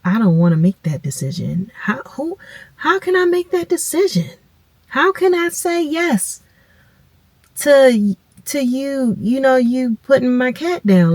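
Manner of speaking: high, strained, choked-up plea; begging not to have to decide; distressed pleading. Retold or imitated. Owner pleading with the vet over her cat, high and choked.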